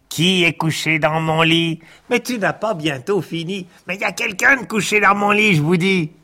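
high, fast insistent whine; a petulant little boy who insists; shrill insistent child. Acted. February insists someone is in bed.

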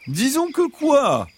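high, slow, pressing fox voice; insistent fox. Acted. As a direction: push them gently for an answer, as the fox. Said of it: "insista le renard".

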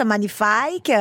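"magnifique" with a foreign lilt, gn as n; her own magnifique. Real, not acted. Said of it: "Ah, ça y est, elle me l'a fait".

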